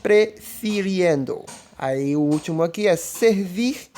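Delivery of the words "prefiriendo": "prefiriendo" drawn out slowly; slow, careful "prefiriendo"; Spanish gerund demo. Shown as a demonstration. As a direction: model "prefiriendo" slowly for the class. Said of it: "Preferir vai ficar como".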